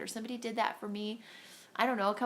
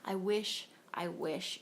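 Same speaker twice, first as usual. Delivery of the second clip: jealous longing; 3 dB louder than usual. Retold or imitated. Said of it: "I've been jealous".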